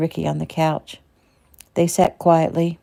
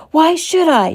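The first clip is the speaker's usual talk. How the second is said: higher, louder cry of defiance; 11 semitones higher, 7 dB louder than usual. Acted. Shelley defying Eric's plea, crying out. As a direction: fling it back at him. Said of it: "she cried".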